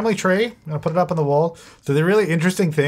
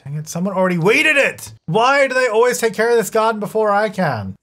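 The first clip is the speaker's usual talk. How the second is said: annoyed; 6 semitones higher than usual. Real, not acted. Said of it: "So annoying".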